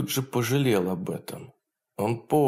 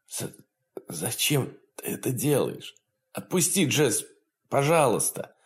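pleading; 3 semitones higher than usual. Acted. Beaten man begs.

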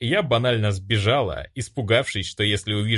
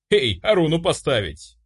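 calling out; 7 semitones higher, 4 dB louder than usual. A narrator's reading. Calling out to the doctors.

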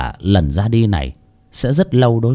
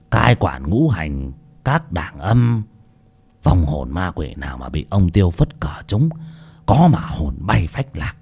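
put-on old shaman voice; 5 semitones lower than usual. Old shaman explains the guardian.

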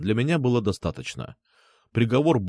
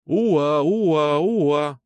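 siren howl, pitched higher and louder; siren wail imitation; 4 semitones higher, 4 dB louder, much slower than usual. A narrator's reading. Police sirens howling as they approach, wailing. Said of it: "орали они".

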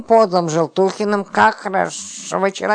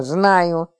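usual speaking voice

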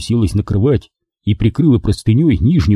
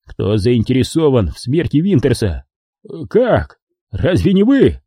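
nervous; 3 semitones higher, slower than usual. Acted. Scared man questions killer.

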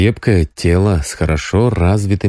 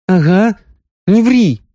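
much higher playful disbelief; teasing; 13 semitones higher, 3 dB louder than usual. A narrator's reading. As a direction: call his bluff playfully. Sonya teasing.

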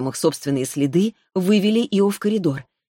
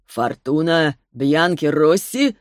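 slow menacing question; slower than usual. Acted. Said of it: "спросил Арис".

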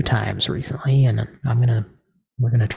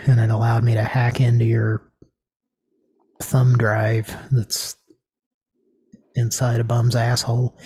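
whispering. Acted. Conspiratorial hacking joke.

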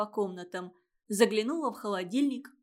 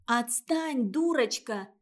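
крик; 3 dB louder, slower than usual. Acted. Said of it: "кричит Сонька".

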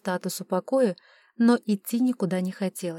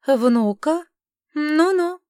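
high, louder doubtful rise then knowing hum; noncommittal skepticism; 7 semitones higher, 6 dB louder, much slower than usual. A narrator's reading. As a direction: sound like you know better. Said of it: "неопределённо хмыкнула".

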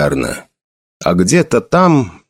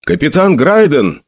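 soldier shouting; 5 semitones higher than usual. Acted. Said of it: "закричал один из солдат".

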